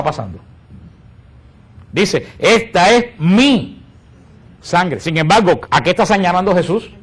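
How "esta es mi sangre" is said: slow, grave consecration words; a hint of Jesus, drawn out slowly; solemn Jesus. Preacher voicing Jesus at the Last Supper, slow and grave.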